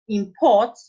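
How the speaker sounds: imPORT, loud stress on the second syllable; "import" as a verb, end-stressed. Shown as a demonstration. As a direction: punch "port" in "import". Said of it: "shifted from the first syllable to the second".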